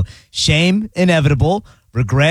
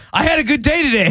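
high cheerful voice; 12 semitones higher, faster than usual. Retold or imitated. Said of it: "being like".

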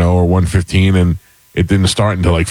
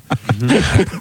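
short laugh; 7 semitones higher, 3 dB quieter than usual. Real, not acted. Laugh after joke.

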